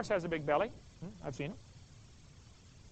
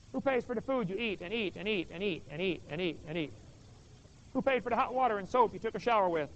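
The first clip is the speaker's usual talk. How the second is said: stern dad. Retold or imitated. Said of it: "And Dad says".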